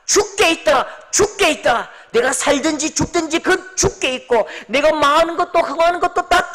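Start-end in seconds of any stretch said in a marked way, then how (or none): 0.1-1.9 louder and higher, declaring; proclaiming. Acted. Pastor proclaiming to the congregation, rising declaration. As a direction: call it out like a proclamation. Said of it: "외치는 거지요".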